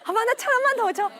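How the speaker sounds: put-on high, loud, overexcited child's begging; happy kid pleading. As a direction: pester a parent in oblivious high spirits. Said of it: "기분이 너무 좋으면".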